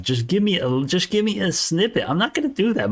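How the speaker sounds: high-pitched, exasperated pleading; exasperated insistence. Real, not acted. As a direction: push back in a high, strained plea. Exasperated arguing with a doubter.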